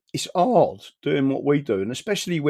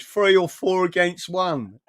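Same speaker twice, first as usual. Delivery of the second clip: slightly slow, raised quote of the guest; quoting Dino; 5 semitones higher, slower than usual. Retold or imitated. Telling viewers how Dino whined about it, slightly slowed. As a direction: repeat his complaint as he said it. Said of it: "He went".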